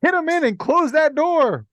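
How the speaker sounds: yelling. Acted. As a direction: bellow it across the cabin. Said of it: "I'm yelling".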